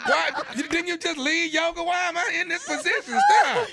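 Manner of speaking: laughing mock plea. The young guy begging her to stop, laughing. Voicing the harassed young lover.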